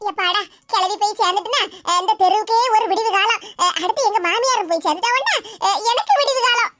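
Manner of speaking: கிளவி போய் சேர்ந்துட்டுனா, laughing with glee; happy gloat over the death, laughing. Acted. (குதூகலமான சிரிப்புடன்)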